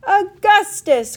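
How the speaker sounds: high, loud, drawn-out greeting; effusive, fluty exclamation; delighted cry. A narrator's reading. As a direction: cry the name out slowly with delight. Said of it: "cried Mister Wonka".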